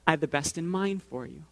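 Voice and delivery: lightly voiced, calm, reassuring God; calm reassurance. God answers the protest calmly.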